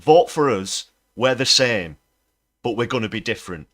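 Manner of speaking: loud, sarcastic parody of a party pitch; hammed-up loud parody of a politician's promise; mock campaign slogan. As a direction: shout the slogan back at them mockingly. Mocking Labour's campaign message.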